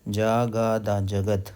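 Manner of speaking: जागादा slowly spread out, then जगद joined; syllable-by-syllable demo. Shown as a demonstration. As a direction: break the word into long syllables, then say जगद whole. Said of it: "अब है जगद".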